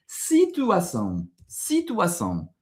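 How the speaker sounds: slow model of "Situação" with nasal ão; teacher sounds out "Situação" for the learner; Brazilian Portuguese word. Shown as a demonstration. Teacher repeats the model word for students, slow careful Portuguese. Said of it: "un autre exemple".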